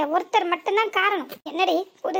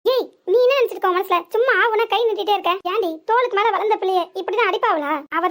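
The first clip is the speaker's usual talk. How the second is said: angry scolding. Acted. Grandmother scolds mother for raising her hand, angry rebuke. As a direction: tell her off hard.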